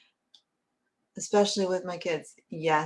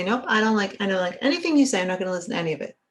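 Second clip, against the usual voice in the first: dismissive refusal; 2 semitones higher, 3 dB louder, much faster than usual. Pretend. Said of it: "don't just look away and say".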